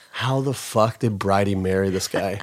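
imagined listener. Retold or imitated. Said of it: "listening to this going".

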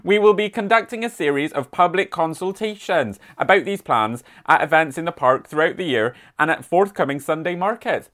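light mock West Country accent, reading the council news; a gentle West Country burr on a local newsletter; hint of a rural West Country accent. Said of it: "I've been doing my West Country accent all weekend".

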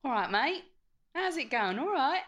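cheeky put-on English accent. Shown as a demonstration. Co-host demonstrating on request, put-on English accent. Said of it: "you do your English accent".

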